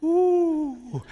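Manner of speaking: high, drawn huffs of rising anger; angry octopus huffing. Acted. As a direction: huff like a furious octopus. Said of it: "Mister Hay was hoo-hoo angry".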